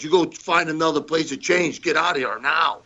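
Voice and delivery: imitated impatient dismissal; retold stern order. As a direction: lay down the law as a retold quote. Andre ordering Arcidi out, retold.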